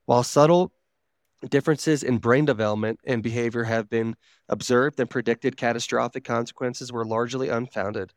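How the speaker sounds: even, measured explainer narration; informational read-aloud. Real, not acted. Reading drug facts to co-hosts, informational read-aloud. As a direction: read it out like a factual article.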